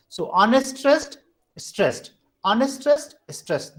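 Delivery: alternating rise on "unstressed", fall on "stressed"; unstressed-stressed pattern. Shown as a demonstration. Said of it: "This is a combination that ho".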